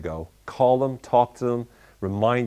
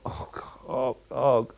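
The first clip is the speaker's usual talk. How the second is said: cringing; 3 dB quieter, slower than usual. Real, not acted. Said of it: "that voice".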